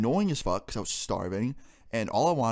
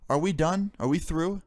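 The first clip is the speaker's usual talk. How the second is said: higher, sharp challenging questions; imitating angry girlfriend; 7 semitones higher than usual. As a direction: throw the questions at him, pitched up. Girlfriend confronting boyfriend with knife.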